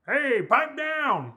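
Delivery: mock stern. Mock scolding the baby.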